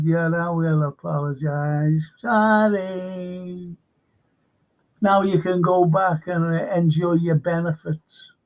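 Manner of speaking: lightly imitated condescending apology with a drawn-out sorry; mock condescending. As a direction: mimic an insincere apology, stretching out the sorry. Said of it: "very condescending".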